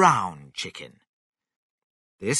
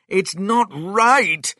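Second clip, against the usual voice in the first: loud, high, slow protest; crying out; 10 semitones higher, 9 dB louder, slower than usual. A narrator's reading. Mister Cranky protests about the chicken, crying out. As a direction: cry out, drawing the words out high. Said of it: "cried Mister Cranky".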